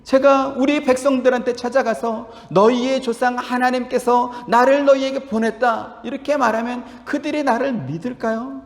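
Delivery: a humble man who doubts he can do it; lightly voiced, imploring Moses; pleading Moses. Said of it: "또 묻습니다".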